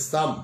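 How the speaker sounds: সাম said as one syllable sam; Tibetan pronunciation. Shown as a demonstration. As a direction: read বিএসএম as সাম. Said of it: "বিএসএম এর উচ্চারণ হচ্ছে". (তিব্বতী উচ্চারণ সাম)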